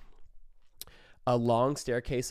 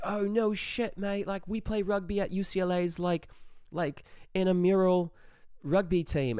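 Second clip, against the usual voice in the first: higher-pitched mock Australian mate; Australian accent; 7 semitones higher than usual. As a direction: imitate an impressed Australian lad. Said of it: "these kids were also Australian".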